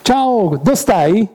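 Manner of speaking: a hint of a dying man calling out to God; pleading Jesus. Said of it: "ho detto che". (Gesù che supplica Dio, voce più alta)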